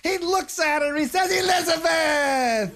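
a hint of a stuck-up prince; prissy prince. Prissy prince voiced higher.

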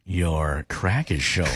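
very low, slow flirtatious purr; flirty. Shown as a demonstration. Host teasing a co-host on request, flirty. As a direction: drop way down and draw it out seductively. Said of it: "Say it flirty".

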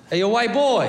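put-on high kid voice calling white boy. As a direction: call out like a cocky little kid. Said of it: "Turns around and goes".

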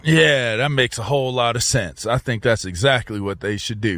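dry mock agreement; sarcastic. Real, not acted. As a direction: agree but clearly mean the opposite. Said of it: "Why are you being so sarcastic".

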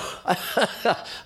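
an unvoiced burst of real laughter; breathy giggle. Real, not acted. Teller apologises to audience for laughing, breathy giggle. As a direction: crack up at your own joke. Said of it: "I'm sorry for laughing".

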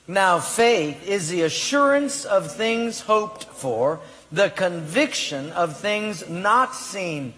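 slow, emphatic scripture reading; reading aloud. Real, not acted. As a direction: read it out deliberately for a congregation to follow. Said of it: "would you read it out loud".

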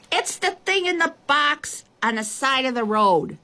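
high, strained faraway call; little girl calling from far away; shouting. A narrator's reading. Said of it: "the little girl shouted".

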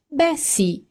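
high purring coo; mewing. A narrator's reading. Amanda mewing smugly at her old friends. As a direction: purr it like a smug cat. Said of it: "miagolò Amanda".

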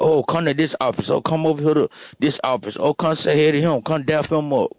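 excited coworkers. Retold or imitated. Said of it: "You got".

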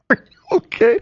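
high, loud alarmed check-in; worried question. Retold or imitated. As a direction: rush in worried. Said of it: "comes racing up and goes".

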